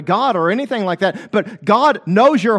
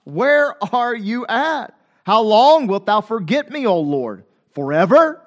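crying out to God. Acted. Preacher voices David asking God where he is, crying out. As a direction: plead with a stretched WHERE and a rising FOREVER. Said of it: "he cries out to God".

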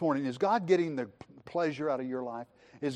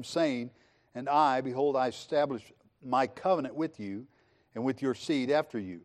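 scripture reading; 2 semitones lower than usual. Acted. Preacher reading Genesis aloud to the congregation, measured. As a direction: read the verses steadily to the church.

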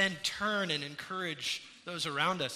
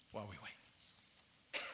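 slow near-whisper, much softer; hushed; 8 semitones lower, 18 dB quieter, slower than usual. Real, not acted. Preacher to congregation on waiting for the Lord, slow whisper. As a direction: breathe the words out slowly.

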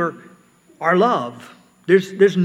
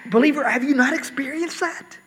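higher-pitched, insistent appeal to a believer; pressing rhetorical question; 9 semitones higher than usual. Acted. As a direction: press the question as Paul asking. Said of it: "as if to ask almost".

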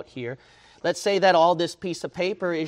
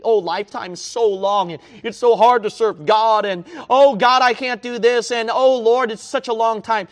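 high, loud whining mock of a reluctant believer; mock whiny voice of a halfhearted Christian; mocking whiny complainer; 7 semitones higher, 10 dB louder than usual. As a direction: sneer out the lazy excuse. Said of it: "what you thought was an eternity".

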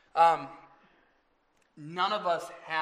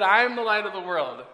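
laughing correction; 3 semitones higher, 10 dB louder, faster than usual. Real, not acted. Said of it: "Jesus said".

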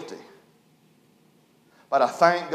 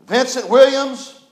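loud, slow courtroom call of the name; magistrate calling a name; 7 semitones higher, 8 dB louder, slower than usual. Retold or imitated. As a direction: call the defendant's name slowly across the courtroom. Magistrate calls defendant in court.

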